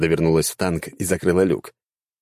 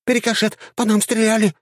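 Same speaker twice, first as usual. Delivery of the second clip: high squeaky battle cry; dryad shouting. A narrator's reading. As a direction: yell it high like an excited dryad. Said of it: "выкрикнула водитель".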